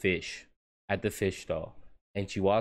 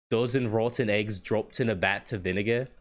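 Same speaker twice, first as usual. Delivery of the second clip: lightly imitated Scottish-style villager accent; NPC lady's accent. Quoting market lady's line, light Scottish-style accent. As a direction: mimic a game villager's maybe-Scottish accent. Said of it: "that accent that she has".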